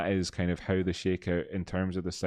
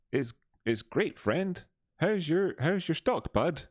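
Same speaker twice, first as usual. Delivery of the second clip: much higher squeaky cartoon answer; South Park reply voice; 10 semitones higher than usual. Streamer voices the other South Park character, very high. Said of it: "That, that clip in, uh, in South Park".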